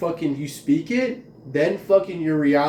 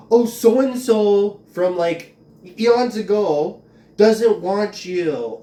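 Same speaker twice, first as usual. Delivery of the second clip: high, louder, slow sneering mimicry; mocking hecklers; 4 semitones higher, 6 dB louder, much slower than usual. Vlogger imitates hecklers taunting her, slow and sneering.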